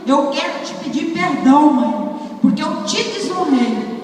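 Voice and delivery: son crying. Retold or imitated.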